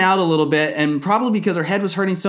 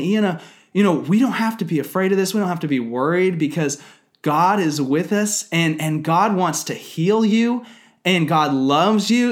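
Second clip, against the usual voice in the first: reassuring father. Retold or imitated. Father soothing feverish daughter.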